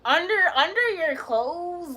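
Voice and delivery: put-on loud "girl" call; friend's loud call. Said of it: "she be like".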